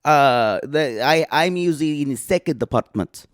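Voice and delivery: put-on matter-of-fact comic Eastern European accent; cousin Olga. Visiting cousin explaining her men, dry accented voice. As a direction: explain it coolly in broken English.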